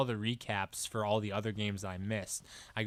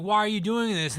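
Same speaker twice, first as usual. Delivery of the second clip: higher-pitched acted game dialogue; mock questioning; 8 semitones higher, 3 dB louder than usual. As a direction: ask it in a pitched-up mock character voice. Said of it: "sometimes they're like".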